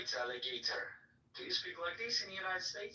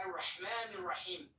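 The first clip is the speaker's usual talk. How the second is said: measured Quranic recitation; chanted Arabic verses; reciting Al-Fatiha; faster than usual. Acted. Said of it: "he just gave us Al-Fatiha".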